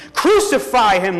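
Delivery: loud, drawn-out, high mob shout; crowd shouting. A narrator's reading. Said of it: "they shouted".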